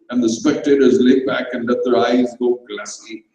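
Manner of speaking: ordinary delivery, nothing marked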